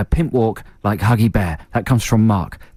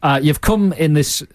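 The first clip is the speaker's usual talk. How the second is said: put-on Scottish accent slipping towards Yorkshire; badly faked dragon accent; wandering put-on accent. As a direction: lose your grip on the accent. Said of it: "what accent is that? It went to the".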